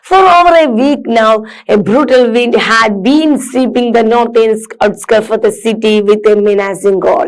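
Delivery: slow, careful read-aloud for students; measured classroom reading. Acted. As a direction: read each word out slowly and clearly. Reads passage to class.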